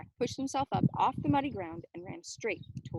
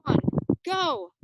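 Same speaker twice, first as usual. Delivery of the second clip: count then go; 6 semitones higher, 11 dB louder than usual. Acted. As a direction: call the count, punch go. The count to let go.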